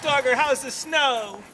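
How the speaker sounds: high, slow voice for the dog; talking to a dog. Real, not acted. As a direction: coo at the dog.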